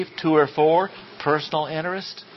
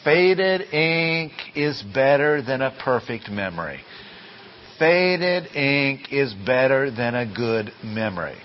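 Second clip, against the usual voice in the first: massima scandita. Shown as a demonstration. Teacher quotes maxim to remember.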